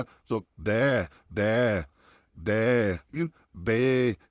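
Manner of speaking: दे and बे with the tongue dropped, a slanted vowel; दे, बे said as a slanted, wrong vowel; wrong slanted sound. Shown as a demonstration. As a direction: demo the faulty slanted दे. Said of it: "ये सब sound नहीं आना चाहिए".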